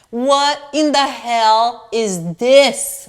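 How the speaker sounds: slow, drawn-out disbelief; stunned disbelief. Real, not acted. Holding up the scam dress to the viewers, slow and stunned. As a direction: stretch each word out, staring at the dress.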